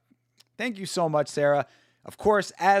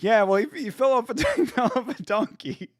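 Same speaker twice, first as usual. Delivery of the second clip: higher voice, cracking up mid quote; mock deadpan, laughing; 7 semitones higher than usual. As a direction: fake a dry line and break into laughter. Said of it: "if someone just very frankly said that".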